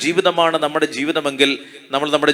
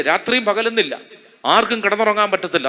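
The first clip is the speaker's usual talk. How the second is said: chuckling through the words, quicker; laughing; 3 semitones higher than usual. Real, not acted. Preacher jokes to the congregation about noisy homes, laughing. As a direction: laugh while describing the racket.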